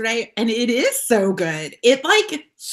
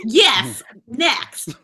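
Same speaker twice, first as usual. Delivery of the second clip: a quick yes and a shouted next; game-show lightning answer; rapid-fire answer. Shown as a demonstration. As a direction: bark out next to end it. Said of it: "listen, you need to do everything with".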